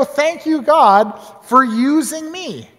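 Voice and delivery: a hint of earnest gratitude; grateful prayer. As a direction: pastor imagines a grateful Jonah. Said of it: "attitude of gratitude".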